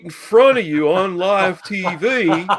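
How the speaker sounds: mock talk-show threat. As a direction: threaten the boy with a grin. Acting Dr Phil, laughing.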